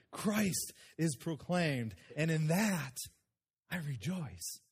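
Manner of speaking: preacher reading scripture. Acted. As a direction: read the letter with conviction. Reads Paul's letter aloud.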